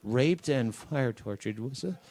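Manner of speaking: meek, hesitant address to the jury; timid prosecutor. Pretend. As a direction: fade out like a shy prosecutor. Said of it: "Use your prosecutor voice".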